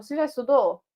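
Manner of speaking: "Você já estudou" asked as a question; question intonation. Shown as a demonstration. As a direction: lift the tune of "Você já estudou" to ask. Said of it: "eu mudo a entonação da voz". ("Você já estudou" com entonação de pergunta)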